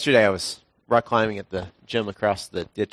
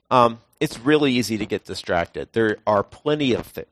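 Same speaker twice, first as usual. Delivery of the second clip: ordinary talk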